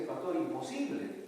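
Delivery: high, loud, desperate wife's voice; distraught wife shouting at her pastor, high and loud; frantic wife. Retold or imitated. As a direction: play the panicked wife, pitch way up and pushed. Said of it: "ella responde y me dice".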